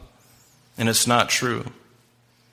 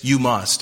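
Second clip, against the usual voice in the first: firm "You must" with a falling tune; emphatic. Retold or imitated. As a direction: state it as a command. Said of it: "It's very emphatic".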